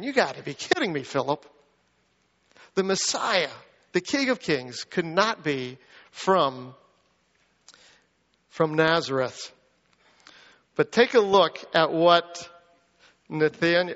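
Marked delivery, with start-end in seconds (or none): 0.0-9.5 sarcastic. Acted. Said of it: "cynical, sarcastic, and saying".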